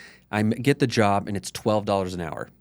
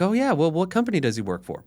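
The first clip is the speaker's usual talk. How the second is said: "Oh, yeah" jumps much higher, playfully keen; mock eager; 7 semitones higher than usual. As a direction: imitate his past keen self, voice way up. Mock eager reply to dad.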